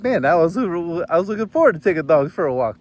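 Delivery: comic whine that the dog walk was taken away; mock disappointment. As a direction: play up being robbed of the walk you wanted. Wife took his dog walk.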